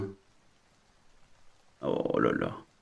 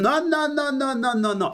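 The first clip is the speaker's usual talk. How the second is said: emphatic no; 10 semitones higher than usual. Acted. Emphatic refusal, rising repeated no.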